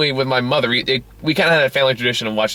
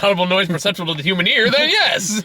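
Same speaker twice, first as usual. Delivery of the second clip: mocking echo; 5 semitones higher than usual. Echoing the line mockingly.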